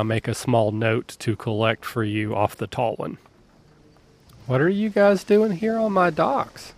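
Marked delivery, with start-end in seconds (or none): 4.5-6.7 boss challenge. Acted. Dock boss challenging newcomers.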